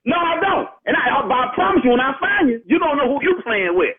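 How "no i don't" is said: defiant shout. Real, not acted. Victim answering the caller's threat, shouting. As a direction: fire it right back.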